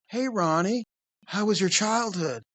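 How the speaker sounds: imitated creep, prying lilt; South Park creep. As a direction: ask sweetly like a cartoon creep. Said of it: "That's how he talked".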